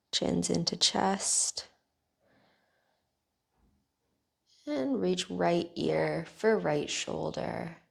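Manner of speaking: calm, even guiding voice with long pauses; guided meditation. Real, not acted. Teacher guiding listeners through bedtime neck stretches, calm guided meditation.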